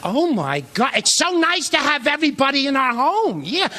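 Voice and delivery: lightly voiced chirpy Edith Bunker; a hint of sweet dim mother. Comic lightly mimicking his mother greeting the in-laws, a hint of Edith Bunker. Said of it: "She walks out like Edith Bunker".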